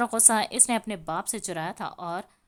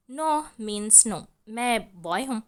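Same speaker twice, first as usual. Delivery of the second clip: put-on stubborn child; 5 dB louder, slower than usual. Stubborn child refusing clothes.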